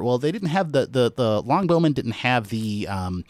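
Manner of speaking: lightly mocked armor historian; a hint of pedantic internet nerd. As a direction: mimic a nitpicker, tailing into dismissiveness. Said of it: "internet armor historian nerd voice".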